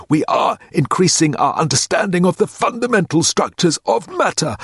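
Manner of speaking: clipped academic drone explaining the Doris problem; Standish's voice. A narrator's reading. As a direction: hold forth like a pompous professor. Standish lecturing, held voice.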